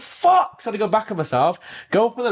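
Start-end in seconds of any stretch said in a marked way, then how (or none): 0.0-0.6 high, loud exasperated curse; sudden high-pitched loud curse; retold swear. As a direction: spit it out, utterly fed up. Retold frustration at wrong lift.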